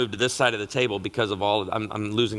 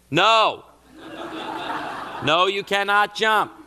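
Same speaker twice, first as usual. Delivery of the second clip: laughing, high, louder no; firm no; 9 semitones higher, 3 dB louder, slower than usual. Retold or imitated. Dad laughing as he forbids his daughter's jump. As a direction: refuse her, half laughing. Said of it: "And I said".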